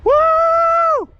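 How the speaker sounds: high whooping cheer; loud woo. Real, not acted. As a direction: let out a loud victory woo. Cheer at summit.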